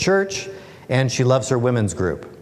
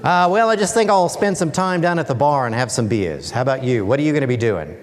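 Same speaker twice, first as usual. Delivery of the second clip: bad Australian accent. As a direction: ham up a beer-loving Aussie worker. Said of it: "I'll try my really bad Australian accent here".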